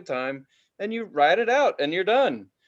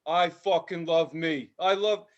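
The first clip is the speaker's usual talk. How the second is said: mock Jersey guy; slower than usual. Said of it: "Jersey Shore type".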